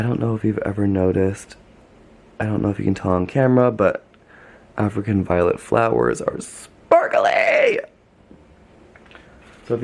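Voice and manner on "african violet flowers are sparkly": excited exclamation. Real, not acted. Excited about sparkly flowers.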